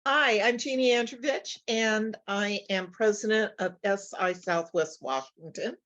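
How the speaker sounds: hoarse voice from a cough; raspy, worn-out voice; raspy whisper. Real, not acted. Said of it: "excuse my voice, I've got a cough".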